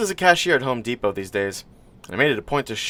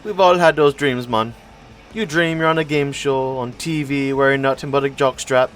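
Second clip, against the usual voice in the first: rambling stranger; 3 semitones higher than usual. Acted. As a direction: talk on and on like a know-it-all. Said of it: "the bastard just wouldn't stop talking".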